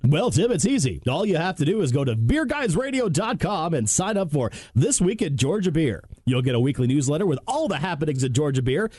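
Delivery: smooth announcer read; radio voice. Acted. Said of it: "that was my radio voice".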